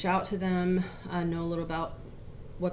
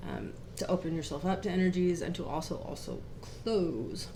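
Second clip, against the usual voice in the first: really quiet; 6 dB quieter than usual. Real, not acted. Co-host recapping last week's lesson, really quiet. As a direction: keep the volume right down as you explain. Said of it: "you're talking really quiet".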